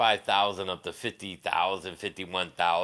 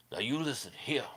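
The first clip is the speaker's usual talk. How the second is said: lightly imitated scolding movie mother; a hint of a bossy movie mom; Waterboy's mom; 3 semitones higher, 4 dB quieter than usual. Imitating the mom from the movie, lightly voiced telling-off. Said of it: "Waterboy. The mom".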